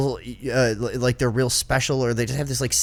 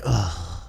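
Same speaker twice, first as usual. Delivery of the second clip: disgusted groan; 6 semitones lower than usual. Retold or imitated. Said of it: "giving us, like, purposeful dirty looks".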